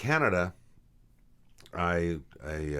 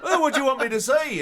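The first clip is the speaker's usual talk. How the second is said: high, loud laughing West Country answer; laughing Devon reply; 7 dB louder than usual. Retold or imitated. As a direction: say it through laughter in a Devon lilt. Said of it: "the kids would say".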